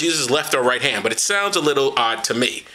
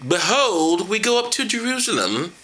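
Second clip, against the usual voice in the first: higher, grand prophetic voice; mock Jesus; 4 semitones higher, slower than usual. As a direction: proclaim it like a solemn prophet. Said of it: "this is Jesus again".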